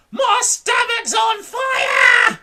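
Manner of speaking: slow, drawn-out high yell; panicked shout. A narrator's reading. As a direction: holler it as a frantic alarm. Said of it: "she shouted suddenly".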